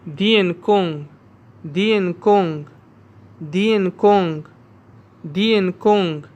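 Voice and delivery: दियन कोंग said clearly with a falling end; repeat after me. Shown as a demonstration. Teacher drilling students, clear, falling. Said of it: "आप सब मेरे साथ पढ़ें".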